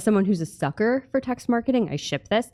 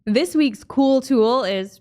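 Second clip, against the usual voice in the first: slow, drawn-out announcer build-up; announcer intro; 4 semitones higher, much slower than usual. Acted. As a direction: announce it like a big reveal.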